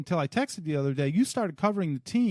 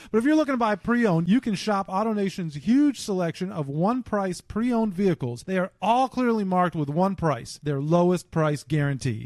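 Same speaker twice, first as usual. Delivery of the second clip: upbeat sponsor ad read; podcast host reading a sponsor ad. Acted. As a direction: sell it like a radio spot.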